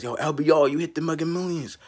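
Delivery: a caller hyping up the lottery winner, excited. Retold or imitated. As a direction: yell the big news like a hyped friend. Caller announces win.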